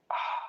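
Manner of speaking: soft, airy "ah" on an exhale; relaxing exhaled sigh; sigh of relief. Shown as a demonstration. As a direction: let out a gentle, relieved breath. Relieved exhale during guided meditation.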